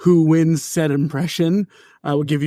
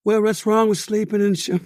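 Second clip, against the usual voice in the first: impression of a pop star; 5 semitones higher than usual. Shown as a demonstration. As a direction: lift your voice into a pop star impression. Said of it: "a pop star".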